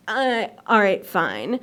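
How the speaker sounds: low, reluctant give-in; resigned, sinking acceptance; grudging agreement. Retold or imitated. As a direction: give in reluctantly, dropping low on the last word.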